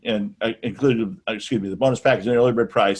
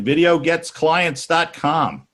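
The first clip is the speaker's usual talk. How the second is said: slow URL read; 5 semitones higher, much slower than usual. Real, not acted. Spelling out the sign-up web address.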